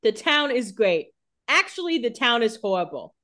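hammed-up indecisive diary entry with squeaky high actually; flip-flopping diary voice. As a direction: swing wildly between gushing and despair. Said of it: "Her entries this day is like".

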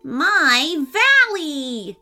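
loud, high cry tailing off; yelling wizard. A narrator's reading. Wizard watching his view burn, yelling. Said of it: "yelled the wizard".

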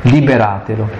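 measured, solemn scripture reading; Gospel reading. Acted. Priest reading the Lazarus passage to the congregation, solemn.

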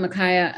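Makaya said to rhyme with papaya, stress on KAI; name pronunciation. Shown as a demonstration. Telling the interviewer how to say her husband's name, clearly. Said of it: "we say Makaya like papaya".

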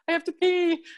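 high, panicky little squeak; scared squeak. Retold or imitated. Nervous lifter before her set, high panicky squeak. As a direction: blurt it out in a mock panic. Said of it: "I'm, like, so scared".

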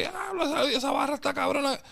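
high, excited hype reaction; impressed exclamation. Retold or imitated. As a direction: gasp with delight at the lyric. A singer reacting to the lyrics.

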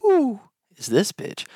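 squeaky, drawn-out character voice; high silly voice. Acted. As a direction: pitch way up and stretch it.

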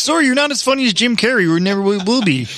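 lightly put-on Canadian apology; mock Canadian accent. Canadian market to podcasters, mock Canadian apology. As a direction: insult politely with a Canadian lilt. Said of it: "the entire Canadian market's like".

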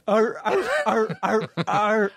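high barking seal laugh. Pretend. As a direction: bark it out like a clapping seal. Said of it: "does it sound like this?".

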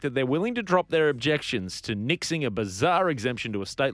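measured newsreader delivery; news read. Real, not acted. Host reads the next story to co-hosts, in news-reader style.

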